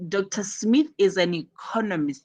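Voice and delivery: "economist" emphasized on its "con" syllable; stress on ECONOMIST. Shown as a demonstration. Teacher models new information, stress on "economist". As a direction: make "economist" the key word. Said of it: "You emphasize on that".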